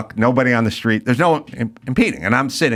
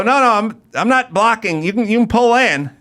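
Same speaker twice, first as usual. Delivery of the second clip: higher, insistent protest; explaining to an angry driver, higher and insistent; pleading protest; 6 semitones higher than usual. Retold or imitated. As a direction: insist you're not in the way. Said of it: "I go".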